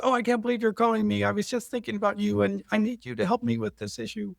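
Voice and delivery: high, fast, excited; excited sister. Retold or imitated. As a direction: gush it out quickly. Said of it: "and she goes".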